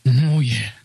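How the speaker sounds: molesting psychiatrist. Acted. Psychiatrist offering drugs to a patient, mock-seductive and low. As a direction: purr it like a creepy seducer. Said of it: "I'm a molesting psychiatrist".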